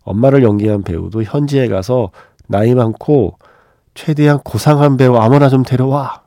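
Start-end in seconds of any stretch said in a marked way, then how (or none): 2.5-6.2 raised bossy demand; bossy order. Retold or imitated. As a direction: bark the order like a boss. Director's order quoted.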